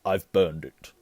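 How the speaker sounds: loud, short and final; curt. A narrator's reading. Uncle tells nephew letter is gone, curtly. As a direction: shut the subject down. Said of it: "said Uncle Vernon shortly".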